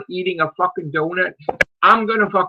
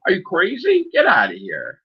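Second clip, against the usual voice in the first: angry shout. Real, not acted. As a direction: yell it at the troll in outrage. Ranting at an online troll.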